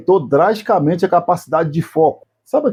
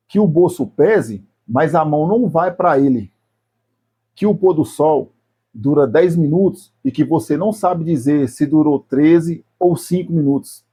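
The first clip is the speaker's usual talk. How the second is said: slow phrases with long pauses; spaced out slowly, piece by piece; very slow, deliberate. Shown as a demonstration. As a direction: let each phrase sink in, unhurried. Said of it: "eu vou falar bem devagar".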